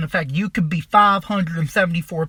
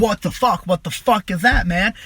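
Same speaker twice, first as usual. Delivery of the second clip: acting out a bit of panic; mildly freaked out; 4 dB louder than usual. Storyteller reliving the sight of moving lamp heads, mildly freaked out. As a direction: retell it with a touch of alarmed disbelief. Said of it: "And so I'm freaked out".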